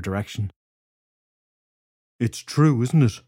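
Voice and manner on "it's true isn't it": panting between words; breathless after running upstairs; out of breath. Acted. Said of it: "Drew said, panting".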